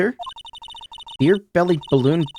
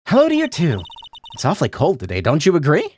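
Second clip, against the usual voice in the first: chirpy puppet voice. Acted. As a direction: greet sweetly like a creepy puppet.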